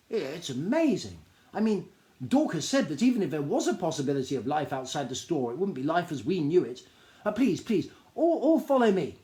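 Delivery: a high, eager little gnome voice, bursting with news; high excited gnome. Acted. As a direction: gnome tells a stranger about the store, high and eager.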